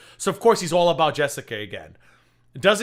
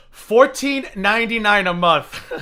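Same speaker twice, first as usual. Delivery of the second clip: laughing; 6 semitones higher, 8 dB louder, slower than usual. Real, not acted. Laughing while reading the price.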